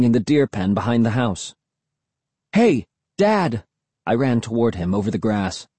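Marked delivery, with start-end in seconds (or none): 2.5-3.6 high-pitched call across a yard. A narrator's reading. Boy running toward his dad, calling out. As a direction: call out to get his attention.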